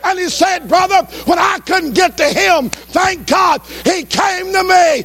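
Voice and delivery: high, driving sermon cadence; full-force preaching. Real, not acted. Preacher urges the congregation to rejoice, preaching at full force. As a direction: preach it high and fervent, punching each phrase.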